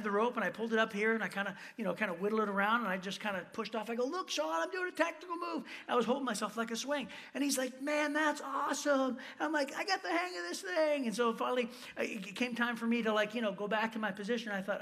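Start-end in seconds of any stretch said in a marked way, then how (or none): 4.0-5.6 mock showing off. Retells showing off while swinging. 7.8-9.1 slow, higher-pitched impressed voice; imitated admiration. 9.8-11.1 high-pitched, pleased-with-himself voice; mock cockiness. Retells his cocky reply.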